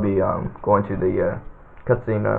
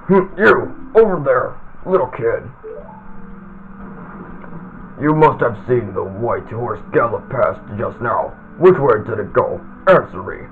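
lightly voiced menacing villain; Ganondorf voice. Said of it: "where I like to do Ganon's voice".

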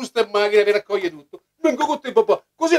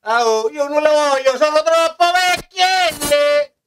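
put-on whiny old puppet voice; squeaky shrill puppet voice. Old character refuses, drawn out.

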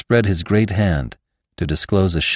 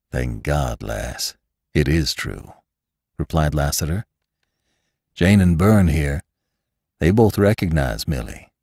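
tender Lassiter; 4 semitones lower than usual. Acted. Lassiter tells Bess who her mother was, tender and low. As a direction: reveal it to her gently, low.

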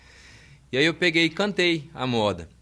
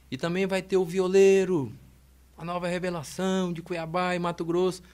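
rodeo announcer; 5 semitones higher than usual. Retold or imitated. Sound truck touting the new guitarist around town, mock rodeo announcer. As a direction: announce the act like a rodeo emcee. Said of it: "e o locutor de rodeio falando".

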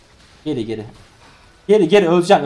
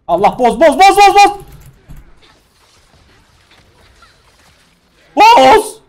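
high, loud chant of the word; loud pleading shout; desperate shouting; 12 semitones higher, 9 dB louder, slower than usual. Real, not acted. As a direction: yell it over and over, begging. Urging the game to crash.

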